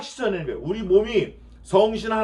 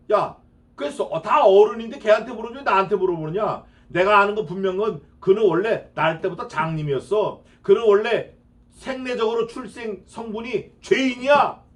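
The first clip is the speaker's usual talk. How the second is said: exasperated father; 3 semitones higher, 4 dB louder than usual. Acted. Blind man's father answering.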